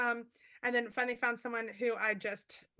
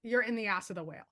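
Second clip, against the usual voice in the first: quick translation; faster than usual. Shown as a demonstration. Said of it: "which is".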